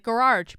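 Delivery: "garage" with a Vermont R. Shown as a demonstration. Vlogger showing how Vermonters say "garage", Vermont R. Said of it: "I pronounce some words funny".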